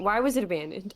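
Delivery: struggling British accent; attempted British accent. Shown as a demonstration. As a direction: have a go at sounding British. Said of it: "I'm trying to do a British accent".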